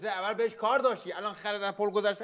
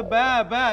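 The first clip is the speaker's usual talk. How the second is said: drawn-out mock bleating; sheep bleat; 3 semitones higher, 6 dB louder, much slower than usual. Shown as a demonstration. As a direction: imitate a sheep's "baa". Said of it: "گوسفند میگه به".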